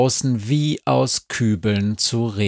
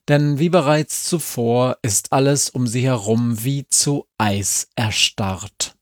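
ordinary delivery, nothing marked

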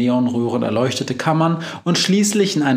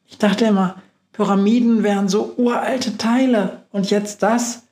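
higher little mouse voice; 9 semitones higher than usual. Acted. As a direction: squeak it out as the puzzled mouse.

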